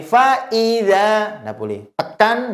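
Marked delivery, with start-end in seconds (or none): 0.0-1.4 slow FA IDZA with the i skewed off; high, drawn-out IDZA with a slanted vowel. Shown as a demonstration. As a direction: tilt the i of IDZA as a wrong example. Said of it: "nggak boleh miring".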